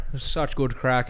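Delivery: light mock Irish accent. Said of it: "An Irish accent".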